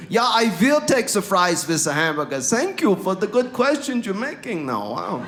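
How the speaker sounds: hammed-up German accent on English. Ordering fries to impress people, mock German accent. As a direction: play the foreign visitor with a comic German accent. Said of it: "I can just use it here".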